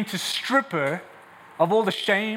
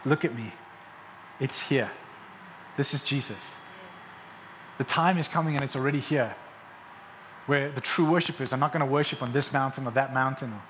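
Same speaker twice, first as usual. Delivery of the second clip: lower, measured, earnest assurance; gentle Jesus; 4 semitones lower, 4 dB quieter than usual. Acted. Preacher as Jesus telling the woman the time is here, gently. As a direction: bring it down to an intimate, sincere promise. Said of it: "He says".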